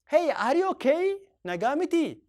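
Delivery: slow, high rising questions; slow concerned model. Shown as a demonstration. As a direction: worry about a friend. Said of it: "Or you can say".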